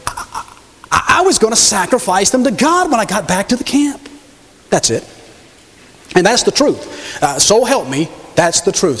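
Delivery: hemming and hawing, caught out; a king caught lying, stammering excuses; flustered stammering king. Acted. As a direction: stall for time with every uh. Saul inventing an excuse.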